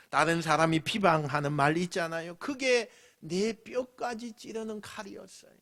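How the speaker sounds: ordinary talk, nothing marked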